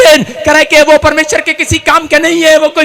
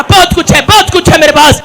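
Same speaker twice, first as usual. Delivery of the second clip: shouted declaration; 5 semitones higher, 7 dB louder than usual. Retold or imitated. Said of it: "मैं कहता रहा".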